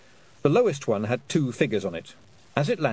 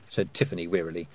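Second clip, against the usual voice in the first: ordinary delivery, nothing marked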